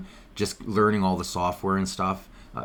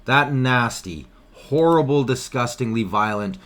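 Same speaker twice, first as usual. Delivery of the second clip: sarcastic; 3 semitones higher, 4 dB louder than usual. Acted. Sarcastic about peaceful convoy.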